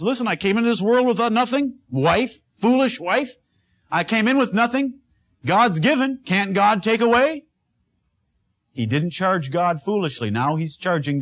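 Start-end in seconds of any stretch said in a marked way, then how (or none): 0.0-7.4 lightly voiced Job. Preacher voices Job rebuking his wife.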